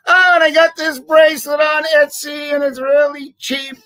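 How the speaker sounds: a light send-up of his buddy's boast; mock Brendan. Retelling Brendan's Etsy brag to viewers, lightly mock voice. Mimics Brendan bragging about bracelet.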